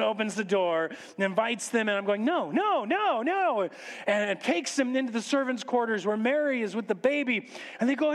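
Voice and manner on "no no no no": high-pitched string of noes; panicked protest. Acted. Host watches strangers being invited in, panicked. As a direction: protest helplessly in a rising panic. Narrator panics as guests enter.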